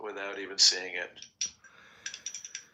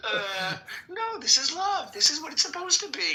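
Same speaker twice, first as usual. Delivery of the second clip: Satan demon voice. Retold or imitated. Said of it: "the Satan demon".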